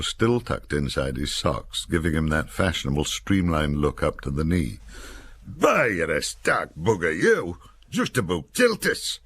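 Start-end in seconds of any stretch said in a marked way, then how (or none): 5.4-9.2 higher, slow northern grumble; Nick, aggrieved. A narrator's reading. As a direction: Nick moaning at Jock about the knife.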